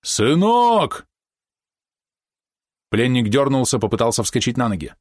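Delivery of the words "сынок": very high, anguished shout; despairing call. A narrator's reading. Father calls to his son aboard, despairing cry. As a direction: call out desperately on a high held note. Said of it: "слышалось отчаяние".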